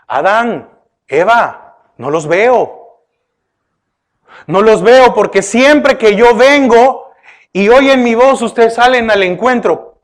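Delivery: patient, unhurried calling by name; gentle call. Retold or imitated. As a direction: call them kindly, as a worried father. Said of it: "No, lo llamó".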